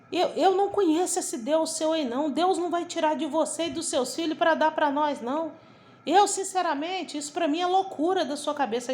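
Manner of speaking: acted-out indignant protest; retold indignation. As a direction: imitate the pastor's wife refusing outright. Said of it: "a esposa dele ficou revoltada comigo".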